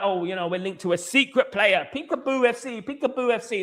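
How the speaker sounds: high mocking singsong of the club; mocking quote. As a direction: taunt them like a kid's game. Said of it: "But we're like".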